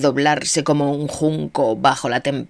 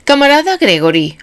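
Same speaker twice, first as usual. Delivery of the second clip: stern rebuke; 10 semitones higher, 7 dB louder than usual. A narrator's reading. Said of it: "observó el presidente".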